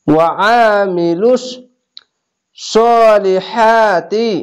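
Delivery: very slow chanted tajweed reading; drawn-out Quranic chant; slow recitation. Shown as a demonstration. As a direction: stretch the long vowels in prayer style. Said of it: "এক আলিফ টেনে পড়বেন".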